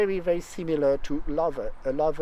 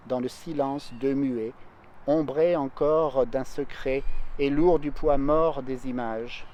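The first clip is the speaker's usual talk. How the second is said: measured, grave French verse reading; poem recitation. Acted. Singer reads the whole poem to her listener, solemn and measured.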